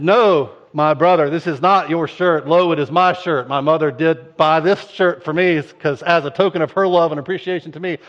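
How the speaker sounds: loud, hammed-up King James scolding; mock-biblical brother. Brother claiming the shirt, loud mock-archaic retort. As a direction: boom it like a pompous old prophet.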